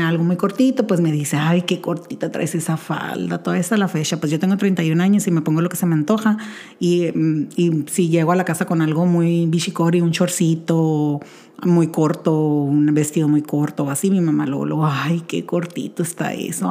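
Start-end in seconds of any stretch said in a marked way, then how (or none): 1.4-3.4 put-on slow, soft little old lady. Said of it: "hago voz de viejita". 14.9-16.7 put-on slow, softer old granny voice; tut-tut like a prim little old lady. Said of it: "hago voz de viejita".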